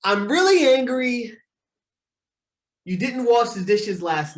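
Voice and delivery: sample complaint. Shown as a demonstration. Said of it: "Here's a complaint".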